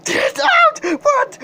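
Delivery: very high shrieking yell; shrieked order. Acted. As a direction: shriek it at the passenger. Driver loses it, shouting.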